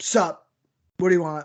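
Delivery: mock-annoyed, irritated put-on voice. Describing calling a friend who answers the phone, imitating Bob sounding pissed off. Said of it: "he always sounds so pissed off".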